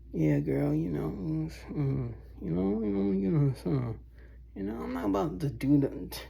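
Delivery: mock flirty call.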